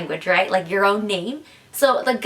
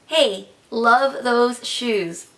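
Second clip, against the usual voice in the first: real casual; much slower than usual. Shown as a demonstration. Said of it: "real casual".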